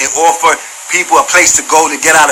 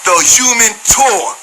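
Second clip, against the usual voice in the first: mocking; 4 semitones higher, slower than usual. Shown as a demonstration. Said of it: "now it's turning into a circus".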